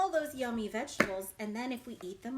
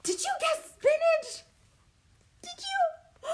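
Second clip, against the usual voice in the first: playful question; 14 semitones higher, 7 dB louder, slower than usual. Real, not acted. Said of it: "teasing question to listeners".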